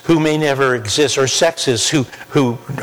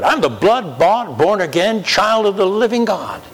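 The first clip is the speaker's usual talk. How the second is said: louder, fervent declaration; 7 semitones higher than usual. Shown as a demonstration. Preacher repeating the affirmation to the congregation, now fervent and higher. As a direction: proclaim it like you finally believe it. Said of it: "Let me say that again".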